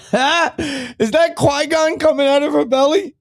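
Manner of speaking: very high, drawn-out put-on voice; silly high voice. Host clowning about Qui-Gon in her belly, silly high voice. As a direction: squeal the question slowly, held up high.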